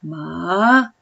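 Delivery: MA climbing steadily from low; second tone. Shown as a demonstration. Teacher showing second tone to student, MA rising. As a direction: slide MA upward like stairs. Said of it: "como si subieras una escalera".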